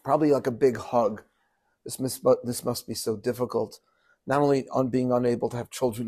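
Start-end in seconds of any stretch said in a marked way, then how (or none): 1.8-3.8 gentle comfort. Pretend. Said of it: "what would you think Jacob's response".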